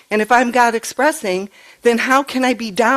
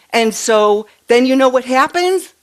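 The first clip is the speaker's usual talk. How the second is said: louder, higher, lightly voiced child building suspense; three-year-old granddaughter; 5 semitones higher, 5 dB louder than usual. Granddaughter building suspense for Nana, light child voice. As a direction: tease the question like a storytelling toddler. Retelling granddaughter's words to her.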